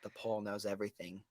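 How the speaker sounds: mock hushed. Mock reverent hush.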